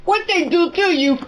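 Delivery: angry outburst. Real, not acted. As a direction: she lays down the law, really upset. Mother furious at her son.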